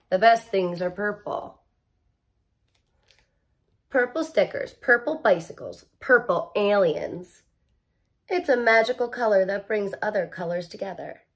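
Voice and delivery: storybook read-aloud; reading to children. Acted. Teacher reads inside cover to class, gentle storybook voice. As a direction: linger over each purple thing.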